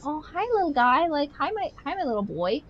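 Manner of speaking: put-on high-pitched baby talk to a cat; cooing at a pet. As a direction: coo sweetly at your little cat.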